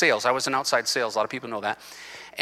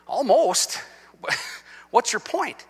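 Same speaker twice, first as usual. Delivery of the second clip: mocking retort; 8 semitones higher, slower than usual.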